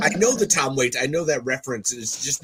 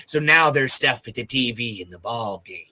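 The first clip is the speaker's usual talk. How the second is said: put-on lightly parodied Americana accent; stereotyped American ball-game talk, faked accent; exaggerated American accent. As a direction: imitate an actor's overdone American accent. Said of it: "now when you hear it and you hear that".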